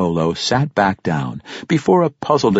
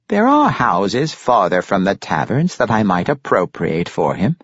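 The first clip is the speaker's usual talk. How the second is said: mildly considering grandfather, a little higher; lightly voiced Pericolo; 3 semitones higher, 3 dB louder than usual. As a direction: float the offer in character.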